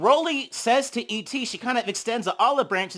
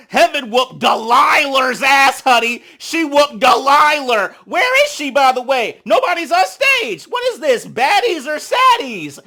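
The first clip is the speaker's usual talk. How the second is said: higher, louder, sassy host voice; messy host voice; 7 semitones higher, 9 dB louder than usual. Retold or imitated. Santana mocking the empty stage, loud and sassy. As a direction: play the messy host teasing. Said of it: "Santana's messy ass said".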